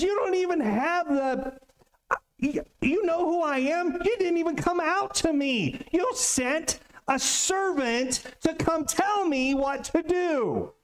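ticked off. Retold or imitated. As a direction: play it as a proud man who has been insulted. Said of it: "he's ticked".

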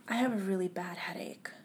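soft, breathless whisper of pain. Retold or imitated. Mother telling her child she has a bad headache, whispered.

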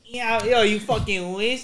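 put-on high, drawn-out Toronto slang accent; mock Toronto accent. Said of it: "Toronto for sure".

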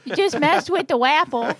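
laughing slur through a swollen cheek; swollen cheek speech. Real, not acted. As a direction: say it with a swollen, numb-feeling mouth. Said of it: "the reason that I'm talking funny is I had dental work done".

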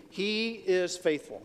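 slow, measured say-along; say-along recital. Shown as a demonstration. Preacher gets the congregation to say the verse together, slow say-along. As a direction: lead the room slowly through HE IS FAITHFUL. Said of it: "Let's say it with me".

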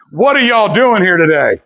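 loud rally cry. Acted. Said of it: "If that was the first one".

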